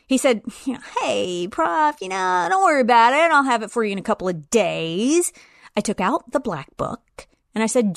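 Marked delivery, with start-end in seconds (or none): 1.0-5.3 casual student. Retold or imitated. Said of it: "all casual and relaxed".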